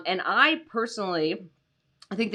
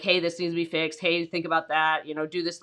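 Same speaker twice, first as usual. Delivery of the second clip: flat monotone; 3 semitones lower than usual. Shown as a demonstration. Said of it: "like, a monotone".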